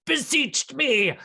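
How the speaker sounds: self-important monster, drawing out each title; crazed kobold. Acted. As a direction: declaim like a deranged little dragon lord. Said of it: "foam around his mouth and snout, and he goes".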